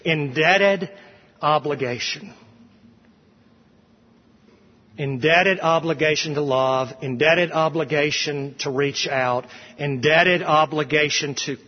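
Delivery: deliberate emphasis on "indebted obligation"; emphatic repetition. Shown as a demonstration. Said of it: "It's for the sake of emphasis".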